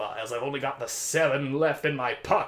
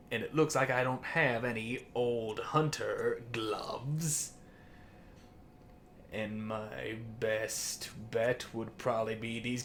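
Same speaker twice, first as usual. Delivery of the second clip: whispered aside; 2 semitones lower, 9 dB quieter than usual. Real, not acted. Whispered aside while gearing up.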